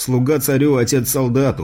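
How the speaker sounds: plain reading voice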